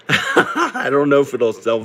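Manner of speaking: laughing it off, half in disbelief; a short rueful chuckle through the words; wry laugh. Real, not acted. Doubting the house will sell that high, laughing.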